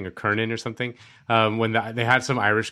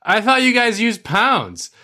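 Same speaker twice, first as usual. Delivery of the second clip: mock disbelief; 11 semitones higher, 6 dB louder, slower than usual. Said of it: "he's like".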